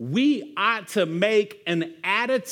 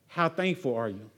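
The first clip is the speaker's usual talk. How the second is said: pointed question; 7 semitones lower, 5 dB quieter than usual. Acted. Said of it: "pastor asks the question".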